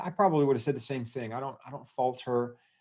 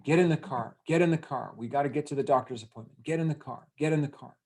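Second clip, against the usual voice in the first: mild mock yell, pitched higher; retold scream; 4 semitones higher than usual. Dad hurrying little girl to doctor's appointment, mild mock scream. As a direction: imitate an impatient dad's repeated order. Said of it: "he's screaming".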